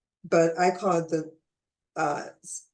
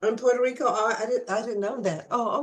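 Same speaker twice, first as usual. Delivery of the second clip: surprised; 4 semitones higher than usual. Real, not acted. Learning company is in Puerto Rico.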